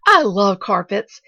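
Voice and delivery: loud, slow, drawn-out relish; exultant. A narrator's reading. Pollyanna rejoicing over her aunt's carpets, exultant. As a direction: gush with delight. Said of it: "exulted Pollyanna".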